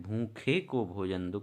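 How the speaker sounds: slow, leaning on भूखे; slow, stressed repeat. Shown as a demonstration. Teacher repeating the sentence for students, slow and deliberate. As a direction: say भूखे को भोजन दो slowly, stressing भूखे. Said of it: "कौन सा कारक है?".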